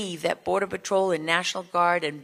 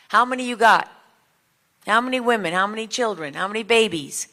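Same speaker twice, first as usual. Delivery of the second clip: mock yell across the water, loud at first and easing off; imitated yelling across the river; 2 semitones higher, 4 dB louder than usual. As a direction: call the questions over a river, starting loud then dropping. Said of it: "Yelling across the river".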